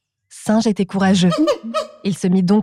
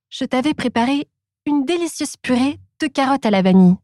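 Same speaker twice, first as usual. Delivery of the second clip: Rabbit's voice; 5 semitones higher than usual. Acted. Rabbit explains to Tiger.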